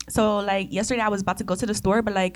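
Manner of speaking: lightly imitated Miami girl with a Hispanic lilt; Hispanic Miami accent. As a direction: slip into a casual Latina Miami accent. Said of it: "the one that's Miami, Miami, but it's a little bit Hispanic".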